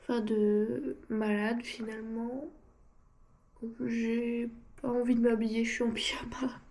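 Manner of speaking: stuffy blocked nose, head cold. Real, not acted. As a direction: talk through a blocked nose. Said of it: "j'ai le nez bouché".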